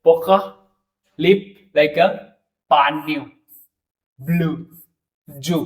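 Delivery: पोका, पान्यू, ब्लू, जू with a rounded ऊ; French examples. Shown as a demonstration. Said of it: "जैसे".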